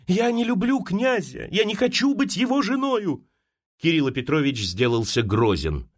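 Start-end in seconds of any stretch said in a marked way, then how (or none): 0.1-3.3 higher, rising pleading; girl refusing the marriage, pleading higher and higher; desperate plea. A narrator's reading. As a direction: plead with him, voice climbing high. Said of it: "закричала она жалобным голосом".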